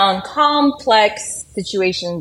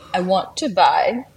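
put-on French accent; 3 semitones higher than usual. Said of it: "he speaks English with a French accent".

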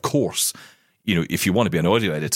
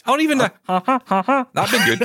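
laughing; 3 dB louder than usual. Real, not acted. Jokey laugh while suggesting change.

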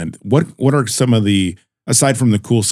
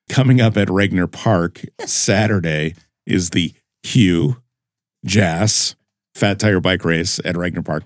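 slow, deliberate, word by word; slow and careful; slower than usual. Real, not acted. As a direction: spell out each word carefully, unhurried. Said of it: "I'm gonna say this slowly and carefully".

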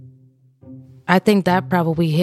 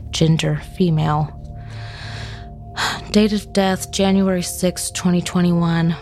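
true crime narrator. Acted. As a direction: read the report out evenly and gravely. Reads out the autopsy report.

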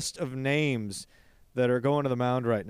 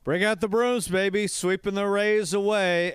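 excited celebration; 5 semitones higher than usual. Real, not acted. Celebrating the sweep.

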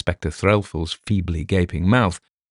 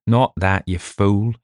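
growling; 2 semitones higher, slower than usual. Acted. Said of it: "he growled".

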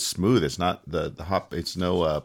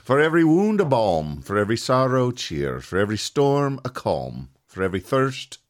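toast recital. Acted. Host reads an Irish toast to the podcast.

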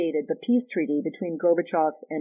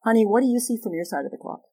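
gentle asking; 5 semitones higher, faster than usual. Shown as a demonstration. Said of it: "literally use this phrase".

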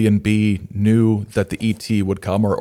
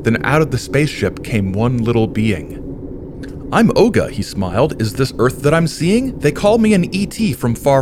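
croaking toad; 3 semitones higher than usual. Acted. Reads rhyming picture book aloud.

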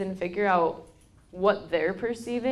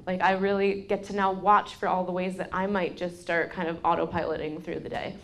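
ordinary delivery

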